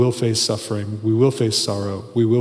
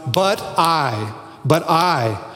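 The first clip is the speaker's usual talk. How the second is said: "But I" set apart, higher, stress on I; emphatic; 4 semitones higher, much slower than usual. Acted. Preacher fronting David's contrast, emphatic. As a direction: lean firmly on the I in "But I". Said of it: "is emphatic".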